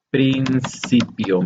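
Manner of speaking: principio said slowly and deliberately, each syllable drawn out; slow stressed word. Shown as a demonstration. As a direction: spell out principio slowly for the class. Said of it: "es la palabra".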